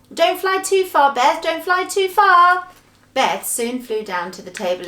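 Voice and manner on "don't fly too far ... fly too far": high, loud warning call; drawn-out raised shout of caution. Acted. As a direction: call up to someone far away. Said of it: "Franny called out to her".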